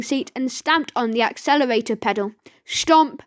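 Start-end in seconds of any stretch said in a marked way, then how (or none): 2.6-3.2 stomp sound effect. A narrator's reading. Stamping sound effect in story.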